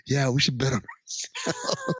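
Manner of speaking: slow, mock-considered agreement; imitating a thoughtful yes-man; careful consideration. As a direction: agree slowly, as if it were your own idea. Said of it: "it's like he's saying it with careful consideration".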